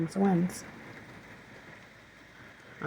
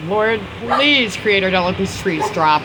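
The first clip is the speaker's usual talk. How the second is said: urgent, louder plea to God; raised voice, earnestly begging; pleading prayer; 3 semitones higher, 5 dB louder than usual. Real, not acted. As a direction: pray out loud over the storm. Praying aloud as wind hits.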